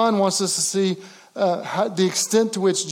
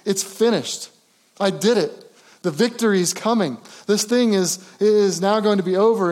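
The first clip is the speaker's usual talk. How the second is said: triumphant; 2 semitones higher than usual. Acted. Jesus voiced in victory.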